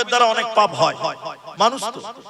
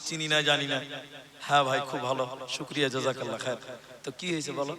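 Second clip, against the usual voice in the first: much softer, lower, guarded replies; slowly, softly; 9 semitones lower, 10 dB quieter than usual. Retold or imitated. Preacher retelling his cautious reply to a fan, soft and low. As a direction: answer quietly, keeping him at arm's length. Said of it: "তা আমি আস্তে আস্তে বলছি".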